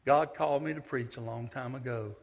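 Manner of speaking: sweetly polite but firm; sugary gentle reply to the old woman. Retold or imitated. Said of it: "as sweet as I could".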